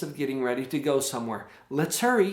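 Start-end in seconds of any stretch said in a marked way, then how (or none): 1.7-2.3 friendly "Let's hurry"; cheerful teamwork "Let's hurry"; inviting encouragement. Shown as a demonstration. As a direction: join the child, upbeat. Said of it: "see how that feels a little bit different".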